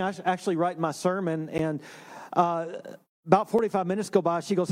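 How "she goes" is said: usual speaking voice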